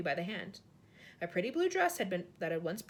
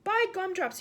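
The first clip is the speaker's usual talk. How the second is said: higher, louder awed cry; giant exclaims; 9 semitones higher, 7 dB louder than usual. A narrator's reading. Giant marvels at the ballroom, loud high cry. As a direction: burst out in wonder. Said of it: "he cried".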